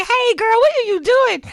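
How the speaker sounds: high, loud bewildered greeting; jolted from sleep, voice shooting up; high loud sleepy confusion; startled mom. Retold or imitated. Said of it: "I'm like".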